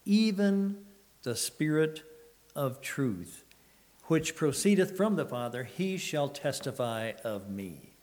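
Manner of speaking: measured, solemn reading of the verse; scripture reading. Acted. Preacher reading verses to the congregation, solemn. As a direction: read it like holy writ, with weight.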